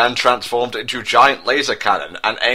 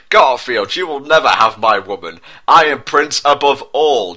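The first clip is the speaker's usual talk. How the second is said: mock arrogance; 3 semitones higher, 5 dB louder than usual. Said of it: "declared Prince William with arrogant laugh".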